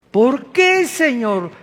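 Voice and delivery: usual speaking voice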